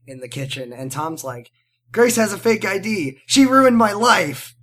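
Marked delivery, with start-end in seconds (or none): 1.9-4.5 a hint of a whiny teenage boy, slowing at the end; whiny teen complaint. Tom complains to his family about Grace, mildly whiny. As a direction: complain like a wronged teen, dragging out the last words.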